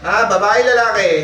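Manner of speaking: loud, demanding question; stern interrogation. Real, not acted. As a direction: press the spirit for an answer. Healer interrogates the spirit.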